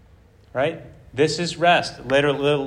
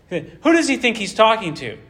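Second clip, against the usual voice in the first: haughty; 5 semitones higher than usual. Acted. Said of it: "some haughty, haughtiness here".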